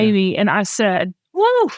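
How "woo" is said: high "woo" to hold back tears; real emotional "whew", pitched way up; emotional exhale. Real, not acted. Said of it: "I'm gonna get emotional".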